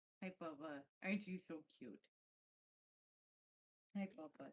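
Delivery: hushed, doting, affectionate half-whisper. Talking to a puppy while others play: half-whispering. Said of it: "What do I hear whispering of?".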